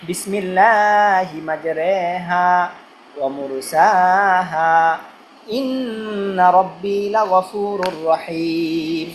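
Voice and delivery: very slow, drawn-out recitation; Quranic recitation. Shown as a demonstration. Teacher reciting the boat-boarding prayer, very slow recitation. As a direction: recite the prayer slowly and reverently. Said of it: "ওই যে নৌকা আরোহণের দোয়া".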